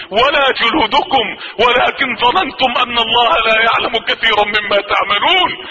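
slow, chanted Quranic recitation. Acted. Preacher reciting a verse to the congregation, solemn chant. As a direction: intone the verse slowly and solemnly.

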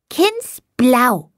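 put-on high child's voice, innocent mispronunciation; a small boy parroting a word he doesn't know; boy repeating Kindsbraut as Kindsblau innocently; clueless little boy. A narrator's reading. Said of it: "wiederholte Tommy ahnungslos".

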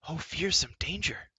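a scared moan from a timid beast; moaning creature. A narrator's reading. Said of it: "Gurgi moaned".

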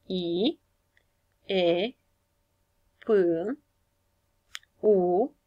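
I, E, P, U, R, A, Ș, U, L said one by one with pauses; sounding out letters. Shown as a demonstration. Teacher sounds out Iepurașul letter by letter for pupils. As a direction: spell out each sound of Iepurașul separately. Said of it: "să observăm și sunetele".

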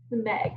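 "meg" blended into one word. Shown as a demonstration. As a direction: say "meg" joined up after its separate sounds. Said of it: "we'll blend it".

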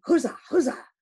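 loud cheering hurrah; seamen's cry. Acted. Sailors cheer as the gold is nailed up. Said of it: "cried the seaman".

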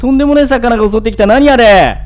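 loud, high and fast protest; excited outrage. Real, not acted. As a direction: cry out that it's unfair. Killed by monster fish, outraged.

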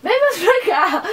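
calling her over loudly, slowly. Real, not acted. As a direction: raise the voice and drag it out. Insisting grandma moves closer.

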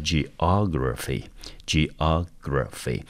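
"geography" slowly, stress on the "OG"; stress on second syllable. Shown as a demonstration. Teacher showing students where the stress falls, second-syllable stress on "geography". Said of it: "重音落在第二个音节".

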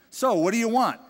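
eager king's question. Acted. The king eagerly asking the preacher's listeners what they want. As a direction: throw the door wide open with it. King asks, door open.

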